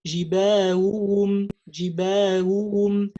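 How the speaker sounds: Jibahuhum with ha's blurred together; wrong merged ha. Shown as a demonstration. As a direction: run the ha's into one. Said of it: "We don't say".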